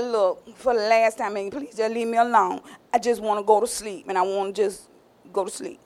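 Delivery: low, soft and tired; weary Samson. Acted. Samson, worn down and sleepy, low and soft. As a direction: sigh it out, worn down.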